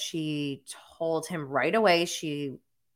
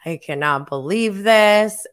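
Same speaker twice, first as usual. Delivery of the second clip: disbelief; 4 semitones lower, 4 dB louder than usual. Retold or imitated. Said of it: "I'm just like".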